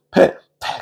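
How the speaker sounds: voiceless mimed spit; spitting noise. Retold or imitated. Soldiers spitting on Jesus, imitated spit. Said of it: "침 뱉으면서".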